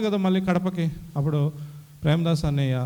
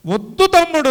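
much higher and louder plea; pleading cry; 9 semitones higher, 9 dB louder than usual. Retold or imitated. Elder brother stopping his younger brother from leaving, with a loud high plea. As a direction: beg him not to go.

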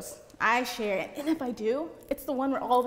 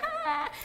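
mock laugh. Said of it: "the girl's, like, laughing".

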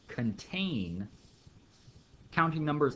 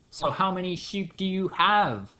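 higher, pushy question; mock insisting; 6 semitones higher, 4 dB louder than usual. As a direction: keep pressing him about the sheep. Shepherd pressing neighbour.

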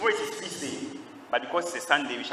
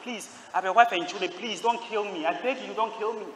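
higher, softened begging; retold tearful plea; 5 semitones higher than usual. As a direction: act out a crying man's plea, without real sobs. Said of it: "He was crying".

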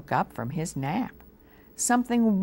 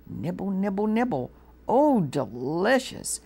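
nibbling mouse; 4 semitones higher than usual. A narrator's reading.

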